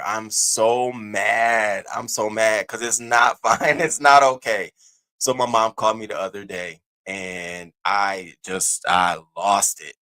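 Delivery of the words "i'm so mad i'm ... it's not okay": angry. Real, not acted. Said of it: "I have this anger".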